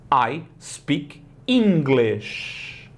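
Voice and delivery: I speak English drawn out slowly; very slow model sentence. Shown as a demonstration. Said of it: "se fala English".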